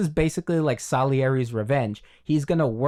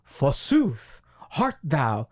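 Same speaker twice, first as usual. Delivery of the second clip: mock old English; much slower than usual. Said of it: "they don't speak like".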